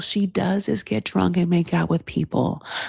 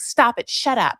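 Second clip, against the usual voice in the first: higher mock-annoyed retort; snappish; 5 semitones higher, 3 dB louder than usual. Girlfriend shutting down her boyfriend, snappish. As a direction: cut him off, acting out the row. Acted quarrel of a couple.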